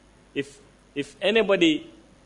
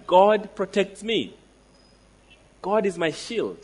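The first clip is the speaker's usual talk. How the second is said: confident declaration; 4 semitones higher than usual. Shown as a demonstration. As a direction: declare it boldly, no asking. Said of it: "He just declares".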